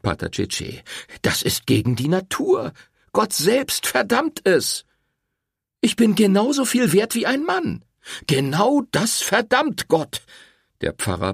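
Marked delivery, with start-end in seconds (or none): 1.2-4.8 stern cleric damning her; condemning priest. A narrator's reading. Priest condemning in read story. 5.8-7.8 higher and louder, defiant woman; angry young woman standing her ground. A narrator's reading. Rosetta defies the priest. 8.3-10.2 higher, slow, preachy priest; stern cleric damning her; condemning priest. A narrator's reading. Priest condemning in read story.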